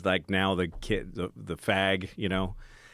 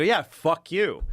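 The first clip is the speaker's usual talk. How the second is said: higher, louder, slow retold defiance; defiant comeback; 8 semitones higher, 4 dB louder, slower than usual. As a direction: throw it back at him, slow and cocky.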